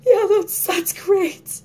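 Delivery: high, loud mock enthusiasm; sarcastic. Brushing off sad dog videos, sarcastic. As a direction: fake cheer, dripping with sarcasm. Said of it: "I'm always like".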